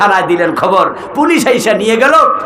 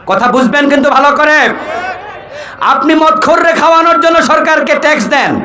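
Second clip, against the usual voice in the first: raised, insistent sermon delivery; forceful preaching; 4 semitones higher than usual. Real, not acted. Preacher warns the crowd about feeding drunkards, forceful preaching. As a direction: drive the point home to a crowd.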